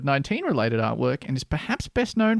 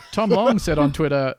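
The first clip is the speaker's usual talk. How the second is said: ordinary talk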